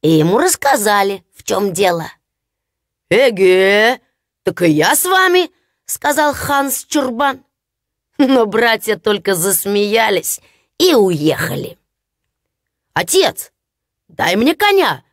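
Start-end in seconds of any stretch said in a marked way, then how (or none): 3.1-5.5 Hans the simpleton. Acted. Hans joins his brothers. 12.9-15.0 mild mock shout, a touch higher; eager simpleton calling out lightly. Hans begging his father for a horse, mild shout. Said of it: "закричал Ханс Чурбан".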